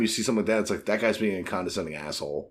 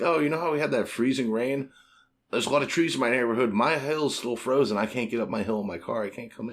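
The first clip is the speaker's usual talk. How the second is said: fake excuse voice. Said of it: "I definitely lied".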